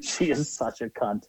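slow, soft, with cunt leaned on hard; slow disgusted jab, weight on cunt; emphasis on cunt. Retold or imitated. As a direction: drag it out and land hard on cunt. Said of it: "emphasis on the word cunt".

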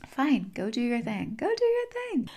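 second phrase leaps very high; mock resigned dismissal; grudging surrender. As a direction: give in, ending in a squeaky singsong. Universe gives up, lets you go.

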